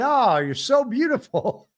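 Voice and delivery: mock Trump, high and slow; imitating Trump. Host mimicking Trump complimenting Macron's wife, high and slow. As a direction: croon it like a hammed-up Trump flattering her. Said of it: "He said".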